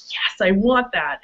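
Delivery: slow, drawn-out, wholehearted yes; authentically wanting. Retold or imitated. Partner confirms consent to the top, authentically wanting. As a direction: imitate someone saying they really want it. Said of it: "when they're authentically expressing".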